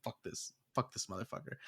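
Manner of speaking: hushed cursing under the breath; muttered dread. Retold or imitated. Retelling seeing the jumpy spider, muttered under the breath. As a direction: swear very softly, almost whispered.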